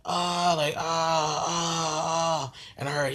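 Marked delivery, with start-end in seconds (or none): 0.1-0.5 mild mock yell, higher pitched; held 'ah', a half-hearted scream; retold scream. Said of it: "I hear some screaming on the side". 0.8-2.5 string of mock wails, held level; drawn-out, half-hearted 'ah' screams; retold scream. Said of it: "I hear some screaming on the side".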